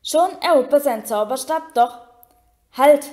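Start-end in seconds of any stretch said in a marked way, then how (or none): 2.8-3.1 loud, abrupt command; sudden shout. A narrator's reading. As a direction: cut in with a sharp call. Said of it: "rief Professor Lupin plötzlich". (plötzlicher, lauter Haltruf)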